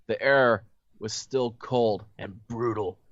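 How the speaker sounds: measured read-aloud storytelling voice; story narration. A narrator's reading. Host reading the story to friends, narration.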